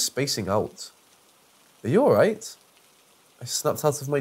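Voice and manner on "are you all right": concerned call. Acted. Someone checks on narrator.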